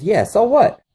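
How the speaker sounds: mock sulky teen; bratty defiance. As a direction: shrug him off like a spoiled kid. Son's defiant reply to father.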